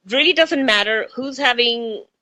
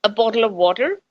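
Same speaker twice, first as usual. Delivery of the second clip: American-tinged accent; faster than usual. Shown as a demonstration. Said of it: "my accent is changing".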